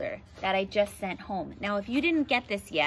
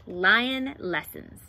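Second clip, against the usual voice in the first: slow title; 3 dB louder, much slower than usual. Shown as a demonstration. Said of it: "I'm gonna read you this book".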